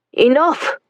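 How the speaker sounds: loud barked order; barked command. Acted. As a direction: shout to silence. Officer shouts.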